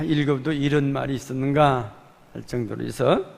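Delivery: ordinary talk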